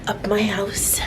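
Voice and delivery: a little winded walking upstairs; climbing stairs. Real, not acted. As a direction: talk while climbing stairs. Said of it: "walking up the stairs".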